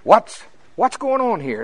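high, loud, drawn-out demand; upset. Acted. Preacher voicing Jesus confronting his disciples, upset. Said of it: "he, he is upset".

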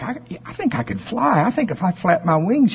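put-on young chick. Young chicken dreaming of flight.

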